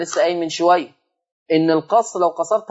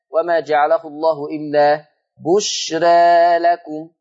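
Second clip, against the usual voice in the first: Quran recitation; 3 semitones lower, slower than usual. Acted. Recites the verse line.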